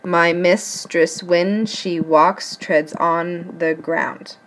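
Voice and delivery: slow, even beat: my MIS-tress WHEN she WALKS treads ON the GROUND; marking iambic pentameter. Shown as a demonstration. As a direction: scan it foot by foot, leaning on "when", "walks", "on" and "ground". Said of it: "mark the iambic pentameter".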